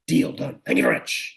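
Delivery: whispered quick acceptance; whispered buyer agreeing; hushed professor. Acted. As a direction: seal the deal in a whisper.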